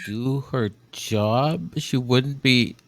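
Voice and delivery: slow, low, quiet mocking echo of "job"; mock repeat. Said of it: "I wouldn't be doing my job".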